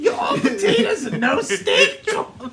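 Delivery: laughing taunt. Pretend. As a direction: shout it through laughter.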